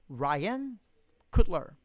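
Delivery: "Ryan Cutler" split into two separate words; exaggerated name. Shown as a demonstration. Streamer saying a viewer's name on request, exaggerated "Ryan ... Cutler".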